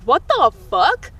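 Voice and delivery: drawn-out, incredulous exclamation; baffled outrage. Retold or imitated. Student reacting to a rumor about them, baffled. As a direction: stretch it out in disbelief.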